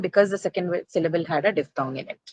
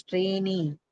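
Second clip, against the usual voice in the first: "trainee" with a long final -ee; stress on second syllable; 6 dB quieter than usual. Shown as a demonstration. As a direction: hold the last syllable of "trainee". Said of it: "stress has to move on to the second".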